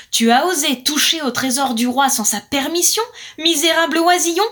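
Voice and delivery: loud, raspy monster voice; a terrible guardian roaring at a thief. Acted. The monster guardian roars at the blackbird, loud and menacing. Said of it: "rugit le terrible gardien".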